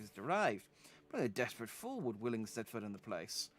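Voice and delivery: a hint of a haughty old merchant, unhurried; lightly voiced merchant. Streamer voicing a merchant warning a desperate adventurer, lightly haughty. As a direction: play the snooty trader lightly. Reads merchant NPC dialogue aloud.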